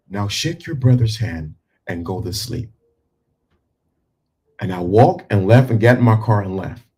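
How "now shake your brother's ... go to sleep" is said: calm stern order. Shown as a demonstration. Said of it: "I talked just like this".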